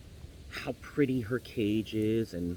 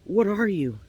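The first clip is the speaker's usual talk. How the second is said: high, loud startled cry; gasp, then a high, alarmed question; startled canary; 8 semitones higher, 5 dB louder than usual. Acted. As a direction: recoil in alarm at a stranger. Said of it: "the canary reels back".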